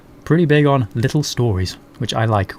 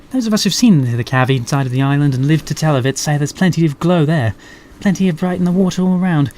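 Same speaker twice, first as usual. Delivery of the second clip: lady voice; faster than usual. Acted. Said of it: "Having to do lady voices".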